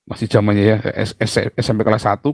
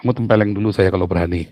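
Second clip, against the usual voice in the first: firm fast dare; 3 semitones lower, faster than usual. Retold or imitated. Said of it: "Kata papi saya".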